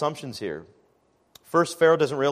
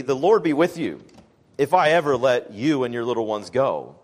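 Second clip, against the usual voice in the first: sarcastic; 3 semitones lower, 3 dB louder than usual. Retold or imitated. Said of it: "Pharaoh says sarcastically".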